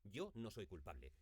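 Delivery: weight on "yo", then a falling close; stress on YO. Shown as a demonstration. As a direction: lean on the opening "yo". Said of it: "Es igual si acentuamos no, o soy, o yo".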